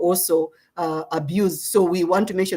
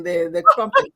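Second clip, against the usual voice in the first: put-on posh British accent, pitched way up. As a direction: play up a British accent on crumpet. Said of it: "I just had to put in the British accent".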